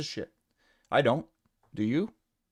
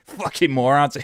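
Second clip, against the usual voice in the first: laughing; 5 dB louder, slower than usual. Real, not acted. Laughs while insulting.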